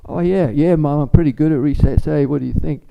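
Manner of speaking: put-on high, loud bragging kid; eager child. Child boasting to his mother, high and eager. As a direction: play the kid showing off to Mom.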